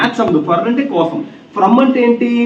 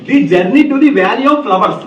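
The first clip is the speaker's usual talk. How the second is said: slow reading aloud; much slower than usual. Shown as a demonstration. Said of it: "అక్కడ చూడమ్మా".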